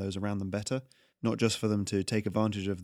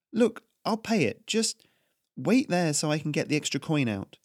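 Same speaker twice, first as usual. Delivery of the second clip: put-on higher, anxious young woman giving in; young baker Melora; 6 semitones higher than usual. Baker Melora hurriedly agreeing to pay the tax collector. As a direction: placate him quickly.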